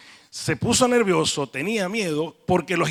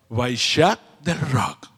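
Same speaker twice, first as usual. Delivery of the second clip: slow, lower mock Catalan; hammed-up Catalan, stretched out; Catalan accent; 6 semitones lower, much slower than usual. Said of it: "si hubiese sido catalán".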